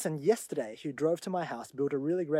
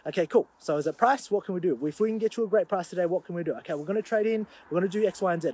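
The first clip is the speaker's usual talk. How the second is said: loud, pushy sales pitch, higher; loud and driven; 4 semitones higher, 5 dB louder, faster than usual. Retold or imitated. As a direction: push hard like a pushy seller. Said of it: "actually loud and really driven".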